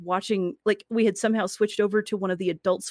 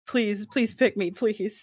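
slow, drawn-out mock plea; desperate begging; much slower than usual. Desperate actor wanting their headshot taken, mock begging. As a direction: beg half-jokingly to be chosen.

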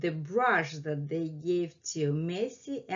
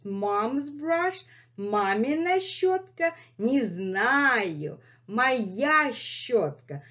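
higher question, slow stubborn answer; playful cat voice; 3 semitones higher than usual. Pretend. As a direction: act the cat keeping its brush. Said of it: "reenacts brush dialogue".

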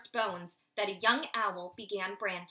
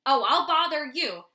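loud furious outburst; exploding anger; 4 semitones higher, 10 dB louder than usual. Acted. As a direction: snap back in a sudden rage. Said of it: "Noctis exploded".

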